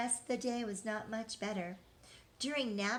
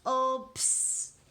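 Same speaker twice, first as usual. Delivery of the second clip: dismissive comfort; 3 semitones higher, 7 dB louder than usual. Acted. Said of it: "said her mother".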